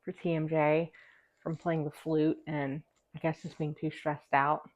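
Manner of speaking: slight lisp through a retainer. Real, not acted. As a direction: talk with a retainer in. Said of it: "please forgive the lisp".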